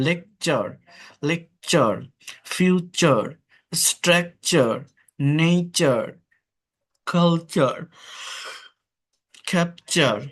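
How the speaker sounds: each word said slowly on its own with the চ sound in লেকচার, ফিউচার, স্ট্রাকচার; teacher word drill. Shown as a demonstration. Teacher drilling the চ sound in words for students. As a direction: model each word apart, stressing চ. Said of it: "উচ্চারণটা হচ্ছে চ হয়".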